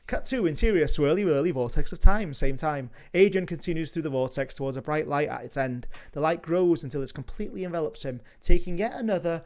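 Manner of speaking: measured read of stage directions; screenplay narration. A narrator's reading. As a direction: narrate the scene like a script reader.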